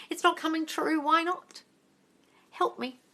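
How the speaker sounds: high, whiny imitation of a doubter; mock helplessness. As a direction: mimic a helpless follower. Voices a helpless doubting follower.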